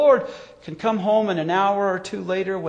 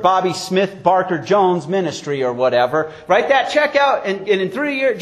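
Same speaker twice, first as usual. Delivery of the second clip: mock charlatan preacher; 2 semitones higher than usual. Preacher imitates charlatans asking broke Christians for money, mock pitch. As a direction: push it like a prosperity huckster. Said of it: "charlatan preachers who gave them a false hope".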